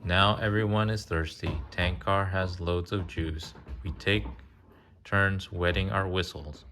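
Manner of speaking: sing-song picture book reading; reading to children. Acted. Parent reading a train picture book to a child, sing-song. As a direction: read the rhyme gently to a little one.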